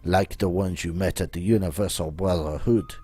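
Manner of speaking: put-on theatrical French-accented schemer; Baron's French-style accent. Voices the Baron in a game.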